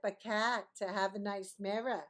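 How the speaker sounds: lightly imitated Brooklyn friend; a touch of Brooklyn accent. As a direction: quote a friend with a hint of Brooklyn. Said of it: "who sounds like she's from Brooklyn".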